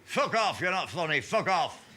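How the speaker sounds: mock heckler yelling fuck off; heckler's shout. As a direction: throw a rude heckle at the comic. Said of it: "and the guy says".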